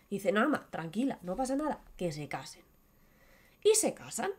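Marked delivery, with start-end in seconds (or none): 0.3-2.6 soft, unbothered reassurance; lightly voiced calm son. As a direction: brush off her worry gently. Aladdin calmly reassures mother.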